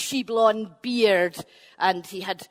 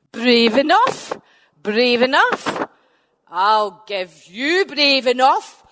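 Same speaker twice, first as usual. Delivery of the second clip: louder, slow indignant giant; angry giant retort; 6 dB louder, slower than usual. Acted. Benandonner answering Finn's taunt, slow loud retort. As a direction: throw the words back, slow and loud.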